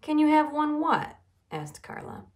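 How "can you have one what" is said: high, loud, pointed query; loud questioning. A narrator's reading. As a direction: ask it so everyone can hear. Carla loudly questions whispering Buster.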